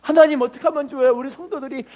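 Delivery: mildly fretful plea to God; imitating an anxious prayer. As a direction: pastor acting out a worried preacher praying. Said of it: "그 기도를 하는 거예요".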